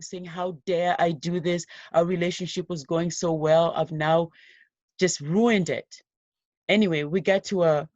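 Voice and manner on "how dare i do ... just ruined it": retold yelling. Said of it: "he's screaming and yelling".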